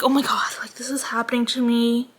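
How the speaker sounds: hushed, breathless whisper of dismay; a mortified half-whisper to yourself; ashamed whisper. Retold or imitated. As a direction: whisper it like you can't believe it. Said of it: "I was just so ashamed".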